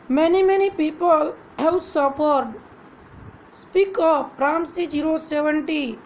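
"Many, many people have suffered" said slowly, each word weighted; measured emphasis on each word of "Many, many people"; stress on each word. A narrator's reading. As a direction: lean on every word of "Speak up", lightly emphatic. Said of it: "stressed each word".

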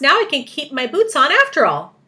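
high, loud, pleased declaration; announcing. A narrator's reading. Centipede relieved about his boots, announcing. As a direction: declare the good news to all. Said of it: "the centipede announced".

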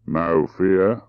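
measured, deliberate reply; understated deliberate drawl. Acted. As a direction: place each word with care. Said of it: "he said in his deliberate way".

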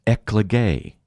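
eklege set apart, opening "ek" stressed, then falling; first-syllable emphasis. Shown as a demonstration. Preacher has listeners hear the Greek words, first-syllable emphasis on eklege. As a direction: lean a little on the "ek" of eklege. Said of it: "pronounce them with a bit of an emphasis on the first syllable".

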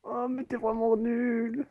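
exasperated whine. Real, not acted. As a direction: whine at the player who spoils it. Scolds a player blocking the game.

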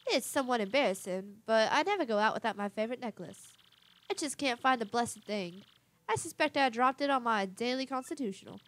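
lightly voiced grand lady, fussy; vain genteel madam. Madam refusing to go out without her necklace, fussy genteel voice. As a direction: make a dainty fuss, with a touch of grandeur.

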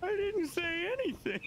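lightly voiced pleading; protesting innocence. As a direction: plead innocence, half-laughing. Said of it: "was like".

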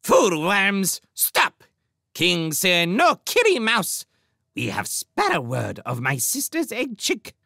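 high, loud bird-king shout; shouted edict. A narrator's reading. King halts his cowering warriors, shouting a new edict. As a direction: shout down the flock as a sparrow tyrant. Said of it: "shouted out a new edict".

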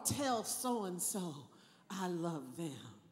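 slow, soft and fading; dying whisper-like. Retold or imitated. Preacher imitating a dying movie character, soft and slow. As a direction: barely breathe it out. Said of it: "something like".

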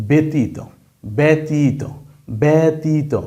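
ব্যতীত said as "betit"; pronunciation demo. Shown as a demonstration. Teacher to class, example word: ব্যতীত said "betit". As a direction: say ব্যতীত slowly, syllable by syllable. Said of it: "এই শব্দটার উচ্চারণ হবে".

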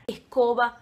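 "escoba" with the S breathed like a Brazilian R; aspirated Argentine S. Shown as a demonstration. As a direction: say "escoba" as "ehcoba", S turned to an H. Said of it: "como se fosse um R".

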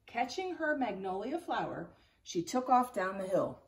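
put-on lively read-aloud narration for kids; expressive picture-book reading to children; story reading. A narrator's reading. Teacher reads chapter book aloud.

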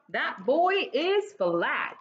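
slow, astonished statement; mock-stunned friend; amazed. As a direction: drag it out in disbelief. Friend amazed at flat boy.

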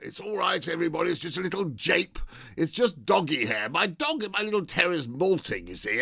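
hammed-up hearty reveal; jolly shout. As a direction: call out to reassure the room. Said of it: "shouted out".

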